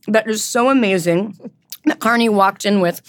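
words around a bite of cake; mouth full. Real, not acted. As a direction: speak while still chewing. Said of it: "talking with my mouth full".

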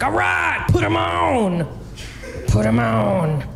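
lightly voiced hyped radio host. Radio DJ taking the call, lightly hyped. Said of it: "It's a pretty good D J voice".

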